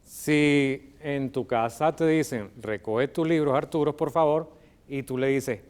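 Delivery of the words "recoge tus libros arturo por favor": raised-voice parental request; parent's request. Acted. Parent telling Arturo to pick up books, raised-voice request. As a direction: call out a polite order to a child.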